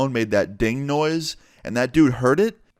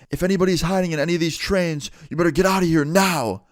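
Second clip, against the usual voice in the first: yelling out; 7 semitones higher than usual. Retold or imitated. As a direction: threaten anyone hiding in the trains. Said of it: "we hear him yell".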